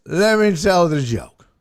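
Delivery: slow, loud slurred demand; drunk heckler. Retold or imitated. Drunk heckler asks the comedian for a turn, slurred slow demand. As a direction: drag the words out drunkenly. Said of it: "So he says".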